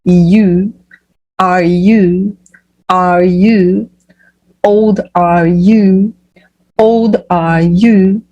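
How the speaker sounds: put-on "old are you" built up word by word, drawn out; slow pronunciation model. Shown as a demonstration. English teacher drills the question from its end, slow pronunciation model. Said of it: "Então, vamos lá".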